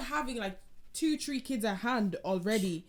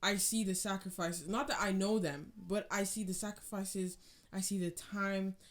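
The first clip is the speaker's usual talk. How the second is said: heartfelt thanks. Retold or imitated. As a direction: tell your parents you finally see them. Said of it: "I've said to my parents".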